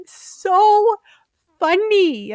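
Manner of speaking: high, loud, giddy delight at the pun; tickled delight. Real, not acted. Host delighted that the puns are back, giddy and loud. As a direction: squeal it out, tickled by the joke. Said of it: "She's so tickled".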